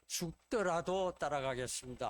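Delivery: mildly spirited imitation of a brash pledge; imitated boastful promise, lightly emphatic; bold retold vow. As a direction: quote it with a touch of bravado, punching the vow. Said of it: "호기 있게 그렇게 이야기를 합니다".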